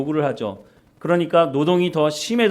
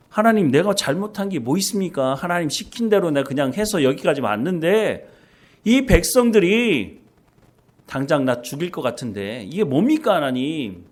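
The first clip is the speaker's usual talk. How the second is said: resentful complaint. Retold or imitated. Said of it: "원망하는 모세의 모습".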